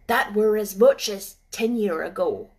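put-on gruff old gardener. Ben speaks.

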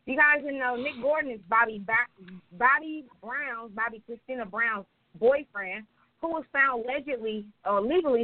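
measured read-aloud gossip news report. Acted. Podcast host reading listeners an arrest report, informal news read. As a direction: read the report out steadily, phrase by phrase.

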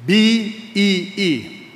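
"B E E" spelled very slowly, letter by letter. Shown as a demonstration. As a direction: draw out each letter of "B E E". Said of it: "Can you pronounce the word B E E?".

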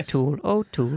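softly repeated name as a creature cry; mock Pokemon cry. Host joins the Pokemon joke, softly put-on creature voice. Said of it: "They're like Pokemon".

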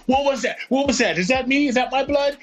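a hint of a dazed, shocked man; Tom Hanks in shock. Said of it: "he goes".

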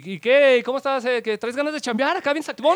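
mock chummy recruiter.

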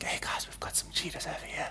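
hushed presenter whisper to camera. Acted. Guide acting out talking near cheetahs, whispered. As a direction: whisper it so the animals aren't disturbed. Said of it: "You whisper".

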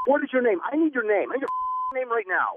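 a store clerk demanding the caller's name; furious demand. Real, not acted. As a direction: demand it, losing patience.

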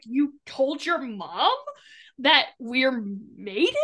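slow, drawn-out incredulous question; retold disbelief. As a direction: imitate someone mildly appalled, spacing out the words. Acts out character's shocked question.

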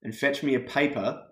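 easy Australian accent for someone to copy. Shown as a demonstration. Giving a Canadian guest one sentence to copy, Australian accent. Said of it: "tries to do the Australian accent".

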